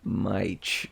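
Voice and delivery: Mych said softly as MYTCH, rhyming with "eye"; pronouncing Mych. Shown as a demonstration. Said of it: "you actually pronounce it Mych".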